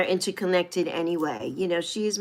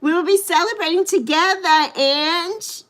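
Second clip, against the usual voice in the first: excited; 7 semitones higher than usual. Real, not acted. Happy birthday news told to viewer.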